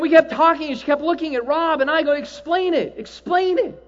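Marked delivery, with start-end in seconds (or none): 2.1-3.8 eager urging. Retold or imitated. Urging her.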